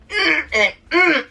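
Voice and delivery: high strained "mm" of pain; acted-out groan through closed lips; pained grunt. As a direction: imitate noises made while a bone is squeezed. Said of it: "the noises I was making".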